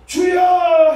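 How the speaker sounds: long high loud cry; long shouted cry. Shown as a demonstration. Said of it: "길게 해야". (길게 외치는 주여)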